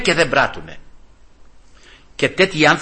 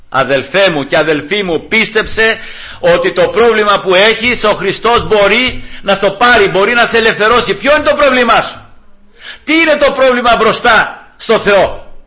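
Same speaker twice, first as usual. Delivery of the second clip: building, loud sermon delivery; impassioned preaching; 7 semitones higher, 5 dB louder than usual. Real, not acted. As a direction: urge the congregation to believe, voice climbing. Preacher urges the congregation.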